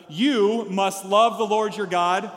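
slow, loud group reading; measured congregational read-aloud; nice and loud. Real, not acted. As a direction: lead the room in reading aloud, slowly. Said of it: "let's read it nice and loud together".

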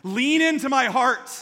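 God calling gently but urgently. Acted. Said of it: "He's saying".

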